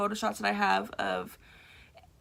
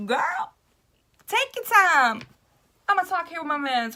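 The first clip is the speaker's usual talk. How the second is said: put-on much higher, breathy girl then loud and fast; sassy reassurance; 6 semitones higher, 5 dB louder than usual. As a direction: play it cool and cheeky. Reassuring lady while posing.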